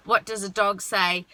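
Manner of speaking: "What does a dog say?" on one low level tune; flat tone. Shown as a demonstration. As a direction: keep it level and even. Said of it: "a flat tone".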